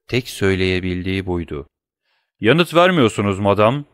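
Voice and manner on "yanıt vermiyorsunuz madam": stern shout. Acted. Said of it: "diye haykırdı korkunç sorgulayıcı".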